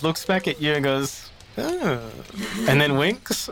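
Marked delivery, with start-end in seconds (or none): 1.6-2.0 high knowing oh. Acted. Baptiste realising what Charlie means, a high knowing oh. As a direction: let it dawn on him.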